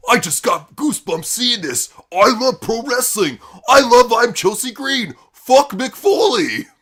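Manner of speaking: building from plain gush to loud, high squeal; mock fan excitement that swells to a shout; gushing fanboy.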